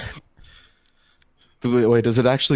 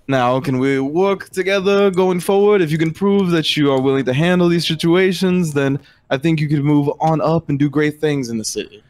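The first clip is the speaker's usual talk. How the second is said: lightly voiced patron, higher and measured; negotiating patron character; 4 semitones higher than usual. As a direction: make a measured in-character offer, slightly raised pitch. Game master voices negotiating character.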